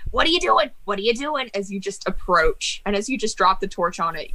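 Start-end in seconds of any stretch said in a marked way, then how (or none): 0.1-1.5 screaming book, higher at first; half-screamed panicky protest from a character; Joe Pesci. Acted. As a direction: protest in a mock scream, not full volume. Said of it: "book just screams".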